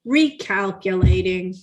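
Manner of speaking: mildly exasperated robotic GPS imitation; level, faintly reproachful machine voice; put-out GPS. GPS scolding drivers who missed the turn, mock put-out. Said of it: "I swear that machine was put out".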